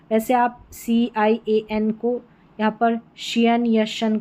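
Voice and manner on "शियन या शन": CIAN as "शियन", then shortened to "शन"; two ending pronunciations. Shown as a demonstration. Teacher showing learners how CIAN sounds, two pronunciations. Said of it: "करके pronounce करें".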